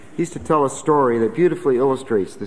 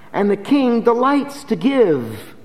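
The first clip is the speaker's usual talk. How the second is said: "And the king delights to give" high, louder, slow, "delights" stressed; preached; 9 semitones higher, 3 dB louder, slower than usual. Shown as a demonstration. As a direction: proclaim "delights". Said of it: "preached repeat".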